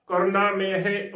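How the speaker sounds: ਕਰਨਾ, ਮੇਹ as korna-mehe, run together; joined pronunciation. Shown as a demonstration. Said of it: "ਉਚਾਰਨ ਕਰਨਾ ਹੈ".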